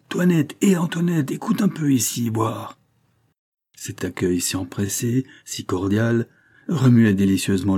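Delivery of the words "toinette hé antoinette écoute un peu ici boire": shouting at full lungs. Acted. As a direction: call your wife from outside, full voice. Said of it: "criant à plein poumon".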